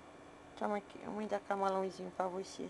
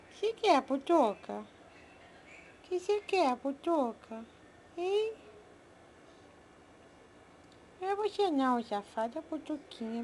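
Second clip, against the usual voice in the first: put-on pet baby talk. Owner cooing to her pets in baby talk. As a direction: coo at the little animals like a doting mom.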